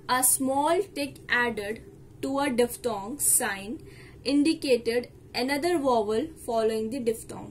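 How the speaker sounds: reads the rule out very slowly, phrase by phrase; slow, measured textbook reading; slow dictation read. Shown as a demonstration. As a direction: spell out the rule like dictation for students.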